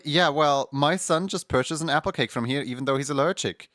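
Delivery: hammed-up indignant customer; mock complaint. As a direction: argue it like a karen. Complaining customer demands refund.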